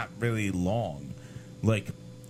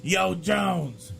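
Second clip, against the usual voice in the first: put-on higher, louder drunk yell to the driver; drunk call-out; 7 semitones higher, 4 dB louder, slower than usual. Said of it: "He's like".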